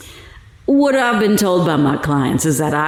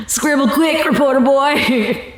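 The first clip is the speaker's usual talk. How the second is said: taunting; 8 semitones higher than usual. Acted. Taunting the reporter.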